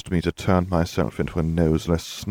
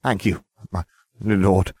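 slow, fawning thank you; a servant simpering thanks to his lord; 3 semitones higher, 3 dB louder than usual. A narrator's reading. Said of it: "he simpered".

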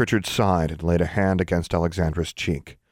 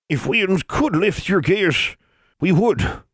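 put-on slow, high cracked old woman; old granny voice; 13 semitones higher, 4 dB louder, slower than usual. A narrator's reading. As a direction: speak like an old mountain granny.

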